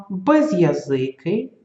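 slow and deliberate, every syllable separate; clear, careful pronunciation. Shown as a demonstration. Teacher pronounces exercise words slowly for pupils. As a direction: spell each word out with your voice. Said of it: "чітко їх вимовити".

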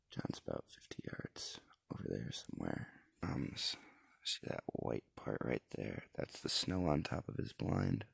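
whispering. Real, not acted. Quiet in the hunting blind.

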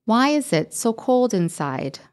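"inside?" rising at the end like a question; uptalk. Shown as a demonstration. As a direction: let the voice go up on "inside?". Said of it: "my voice goes up at the end".

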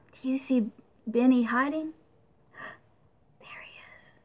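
hushed sneaky whisper. A narrator's reading. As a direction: whisper like hiding together. Aside to children about hiding.

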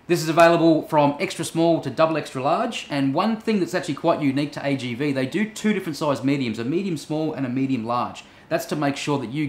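muffled through helmet shell; speaking inside a helmet. Real, not acted. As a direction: voice behind closed visor. Seen 3: Speaker wears closed full-face helmet; helmet on table after 15s.

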